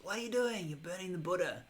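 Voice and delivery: high-pitched mock dismay; upset monk, acted. Monk catching another burning Buddha statues, acted upset. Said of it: "he gets upset about it".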